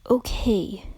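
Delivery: faint whispered agreement; whispered okay. A narrator's reading. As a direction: give in with a hushed okay. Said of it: "was the whisper".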